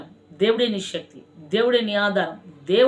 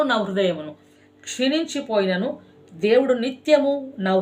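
sermon. Acted. Pastor preaching to his congregation, fervent and rhythmic. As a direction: preach it with repeated cries of దేవుడే.

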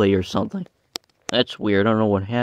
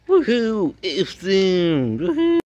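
high, loud woohoo; excited cheer; 8 semitones higher, 3 dB louder, much slower than usual. Pretend. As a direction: whoop it out in glee. Characters cheering as they escape.

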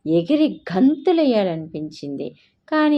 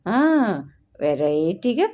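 high, bright eager announcement; a proud young wife eagerly announcing her dish; 5 semitones higher than usual. A narrator's reading. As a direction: sound thrilled with your cooking. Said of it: "అంది లక్ష్మి ఉత్సాహంగా".

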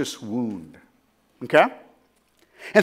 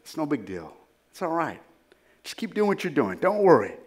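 soft, hushed mock reassurance, much quieter; mock false prophet; 5 semitones lower, 9 dB quieter, faster than usual. False prophets soothing the people, in a soft hushed mock reassurance. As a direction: coo it like a false comfort. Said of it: "telling the people".

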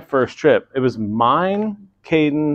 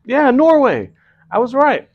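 high, loud gloating; triumphant; 13 semitones higher, 7 dB louder than usual. Real, not acted. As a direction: crow about being right. Triumphant about being right.

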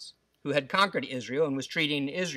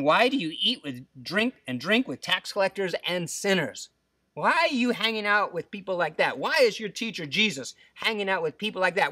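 imitated indignant complaint, pitched up; grumbling Pharisees; 5 semitones higher than usual. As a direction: grumble in disapproval as the scandalized Pharisees. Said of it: "the Pharisees and their scribes grumbled".

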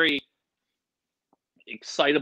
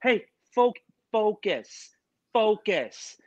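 higher-pitched imitated reprimand; exasperated producer; 6 semitones higher, slower than usual. Producer to chatty guest at rehearsal, exasperated high voice. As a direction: repeat it insistently as a put-on voice. Producers reining him in, acted out.

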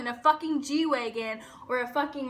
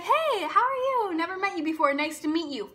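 friendly greeting; 3 semitones higher than usual. Retold or imitated. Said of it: "being like".

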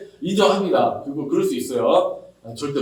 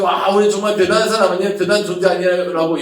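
mock boasting; 2 semitones higher, 5 dB louder than usual. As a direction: show off with a smug cry. 자랑하는 사람 흉내. (으스대며 자랑하는 흉내)

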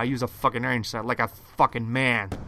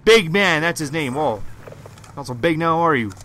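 raging gamer; 3 semitones higher, 6 dB louder than usual. Real, not acted. Gamer taunting an enemy.

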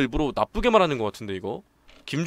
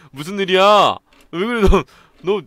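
alarmed call; 5 semitones higher, 9 dB louder than usual. Acted. Alarmed friend shouts.

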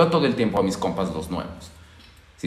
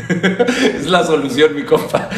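laughing; 4 dB louder, slower than usual. Real, not acted.

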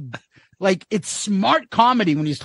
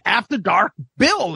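normal talking voice

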